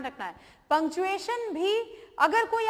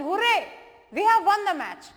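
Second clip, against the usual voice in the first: excited cheer, higher and louder; exclamation; 4 semitones higher, 6 dB louder, much slower than usual. Shown as a demonstration. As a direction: burst out celebrating the win. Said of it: "exclamation". (खुशी से उछलती ऊँची, तेज़ आवाज़ में विस्मयादिबोधक)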